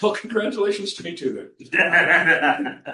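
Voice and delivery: laughing reply. Retold or imitated. Pastor jokes back, laughing.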